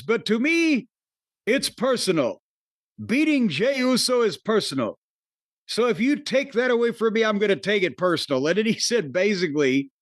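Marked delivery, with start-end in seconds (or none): 0.0-8.4 light Austrian-German accent imitating Gunther, quick at the end; a hint of Gunther's Austrian-German menace. Quoting Gunther's threat to Logan Paul in a light Austrian accent. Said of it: "you like my Gunther accent".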